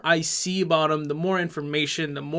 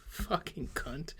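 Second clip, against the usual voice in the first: much softer, slow, under the breath; muttered curse; 16 dB quieter, much slower than usual. Real, not acted. Muttered insult at the end.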